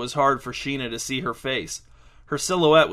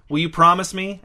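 high, louder, anxious plea; near hysterics; 6 semitones higher, 6 dB louder than usual. A narrator's reading. Donovan begs Sheena for a promise, near hysterics. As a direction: plead urgently in a raised pitch. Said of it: "He sounded near hysterics".

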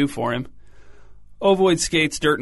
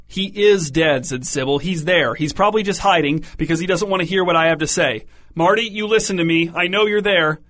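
building into a raised, higher angry voice; rising anger; 4 semitones higher, 3 dB louder than usual. Acted. Mother insisting her dead son is there, angry. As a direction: let the anger climb as she insists. Grieving mother erupts at medium.

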